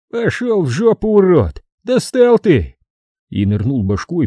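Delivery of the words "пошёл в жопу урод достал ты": loud, high furious yell; shout. A narrator's reading. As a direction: yell it out the window. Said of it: "вдруг громко крикнул". (громкий крик)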